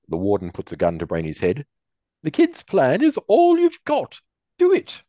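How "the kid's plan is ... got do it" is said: menacing order. Acted. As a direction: threaten with a gun to the head. Warden holds gun to head.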